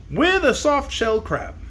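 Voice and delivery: high, slow, put-upon zebra. Acted. Zebra naming his rival, high and slow. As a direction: drawl out the name of a rival.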